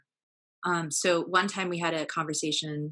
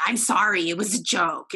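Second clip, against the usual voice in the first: louder, dismissive mock apology; grudging apology; 6 dB louder than usual. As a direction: brush it off while saying sorry. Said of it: "she said it like that".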